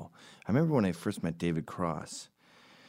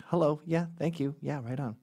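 breezy brush-off; 8 semitones higher than usual. Shown as a demonstration. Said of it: "just sort of say".

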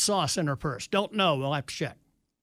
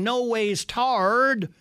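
mock Southern preacher drawl; 4 semitones higher, much slower than usual. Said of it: "Hillary saying".

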